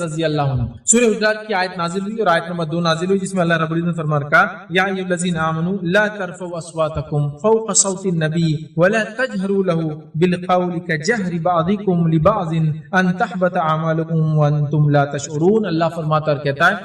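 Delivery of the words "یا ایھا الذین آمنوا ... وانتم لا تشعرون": slow, measured Quranic recitation. Acted. Preacher recites the verse to the audience, slow and chanted. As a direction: chant the verse slowly and reverently.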